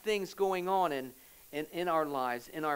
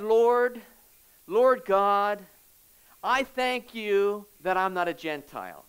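a lightly voiced, proud Pharisee calling loudly to God; louder, self-satisfied prayer call; smug Pharisee; 5 dB louder, slower than usual. Smug Pharisee praying aloud.

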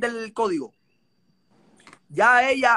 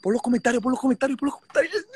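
laughing; 3 semitones higher, faster than usual. Real, not acted. Gloating over the live news.

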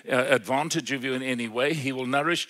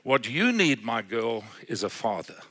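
quiet tender Jesus; 5 semitones lower, 5 dB quieter than usual. Retold or imitated. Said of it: "she says".

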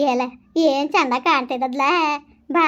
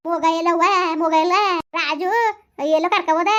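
higher-pitched searching call; 4 semitones higher than usual. Acted. Woman looking for the child and Raju, calling out. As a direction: call around the house for someone.

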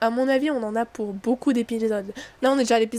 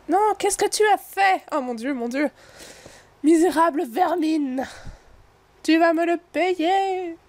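slow, much higher and louder furious curse; enraged tree spirit; 6 semitones higher, 3 dB louder, slower than usual. Acted. The burning Madriade curses the heroes in a slow, high furious scream. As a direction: scream your vengeance as you burn.

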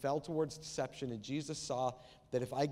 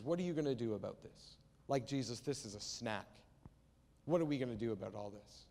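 understated sarcasm, dropping lower; dismissive sarcasm; 4 semitones lower, 3 dB quieter than usual. Acted. Andrew questions Jesus about the snack, mild sarcasm. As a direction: toss it off as a sarcastic challenge. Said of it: "He says it in absolute sarcasm".

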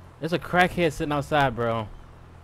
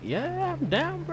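excited; slower than usual. Real, not acted. Invited to drunken game night.

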